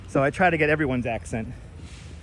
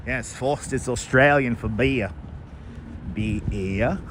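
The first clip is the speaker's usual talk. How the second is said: lower, mock commercial announcer; ad slogan voice; 5 semitones lower, slower than usual. Vlogger hams up the Foster's ad slogan as an announcer. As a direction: deliver it like an old beer ad tagline.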